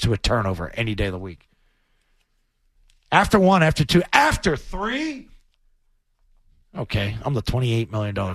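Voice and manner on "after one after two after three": "three" high and slow, building disbelief; mounting count. Real, not acted. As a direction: pitch climbing to a drawn-out THREE.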